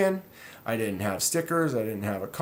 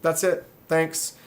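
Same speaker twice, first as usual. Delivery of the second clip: curt sarcastic reply; 4 semitones higher than usual. Retold or imitated. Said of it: "I'm like".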